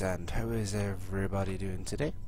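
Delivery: stuffy voice from a head cold; nasal cold voice. Real, not acted. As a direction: talk through a blocked nose. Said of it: "apologise for my voice and my nasally, uh, voice sound".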